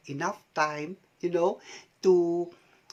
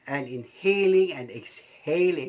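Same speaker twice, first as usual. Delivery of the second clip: laughing; 4 dB louder than usual. Shown as a demonstration. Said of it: "even laughing".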